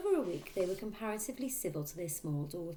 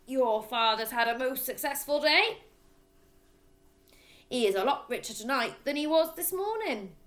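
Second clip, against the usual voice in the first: higher, louder bragging; loud boastful father; 8 semitones higher, 5 dB louder than usual. A narrator's reading. Father boasting to his son, loud and smug. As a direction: crow about the day's swindles. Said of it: "addressed his son in a loud voice".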